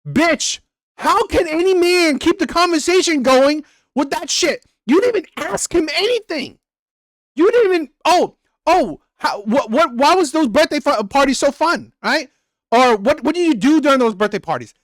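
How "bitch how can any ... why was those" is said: high, heated venting; furious rant. Real, not acted. Streamer blasting the dry texter, high heated rant. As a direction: vent at her, pitch raised high. Ranting at her dry replies.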